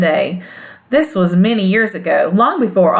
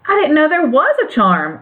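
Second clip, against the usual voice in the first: a touch of surprise, pitched higher; mild surprise; 7 semitones higher than usual. Acted. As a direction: gently caught off guard. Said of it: "answered Dorothy in surprise".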